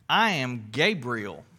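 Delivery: low angel voice. Acted. Preacher voicing angel Gabriel.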